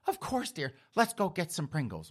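a hint of an indulgent mother answering her kid; obliging mother. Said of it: "And Precious is like".

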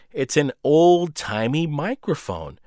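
mock explaining. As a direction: spell out "old-timey microphone" like talking to a child. Narrator mocks the obvious gift.

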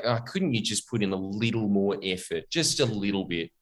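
mock whiny plea. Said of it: "Jetstar is in that uncanny valley".

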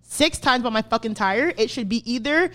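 emphatic re-enacted telling-off; pissed. Fed-up customer demanding a tire or a refund, pissed. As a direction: lay down the ultimatum, fed up. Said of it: "and I'm pissed".

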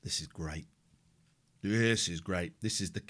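whispered, gloating to himself; quiet inner gloat; gleeful inner whisper. Retold or imitated. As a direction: hush it like a secret delight. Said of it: "And I'm thinking".

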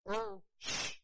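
imitating grandma's startled cuss; mock cuss. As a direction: blurt it out like grandma slipping. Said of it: "and she said".

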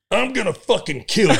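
mock threat through laughter; laughing threat.

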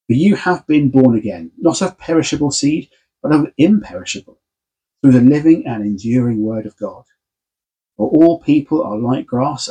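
formal public reading of scripture. Acted. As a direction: proclaim the text to the congregation.

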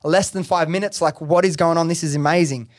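freaking out. Retold or imitated. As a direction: replay being amazed, voice lifted. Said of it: "I'm, like, freaking out".

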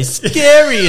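high, loud imitated child; mock toddler yell. What others overhear from a two-year-old, mock toddler yell. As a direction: cry it out like a little kid, drawn out. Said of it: "hearing a two-year-old say".

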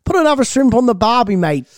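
put-on Australian accent, dropping away on "mate"; attempted Australian accent. Co-host copying the cliché on request, attempted Australian accent. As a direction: have a go at an Aussie catchphrase. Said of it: "Can you do an Australian accent?".

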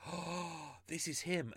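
mock-thrilled, like the case just cracked; excited realisation. Retelling thinking he found the killer.

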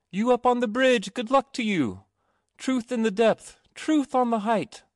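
high, bright sing-song call; maidens' reply. A narrator's reading.

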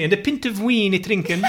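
laughing olde speech; mock Middle English. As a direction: play at medieval verse. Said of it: "Are you literally speaking in Old English?".

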